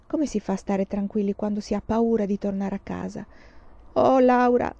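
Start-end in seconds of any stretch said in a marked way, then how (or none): 3.9-4.7 understated plaintive sigh of a name; mild, slightly raised lament; murmured. A narrator's reading. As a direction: appeal to your sister helplessly. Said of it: "mormorò".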